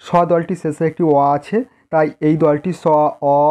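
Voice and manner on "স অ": স stretched into a long held অ vowel; drawn-out syllable. Shown as a demonstration. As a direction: pull the syllable স out, holding its অ. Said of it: "এইভাবে উচ্চারণ করা যায়".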